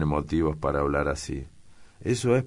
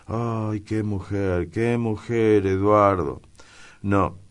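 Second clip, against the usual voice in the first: raised, swelling lament; exasperated exclamation; 6 semitones higher, 4 dB louder, slower than usual. A narrator's reading. Daniel to Eduardo about a woman, exclaiming in dismay. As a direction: cry out in dismay, getting louder.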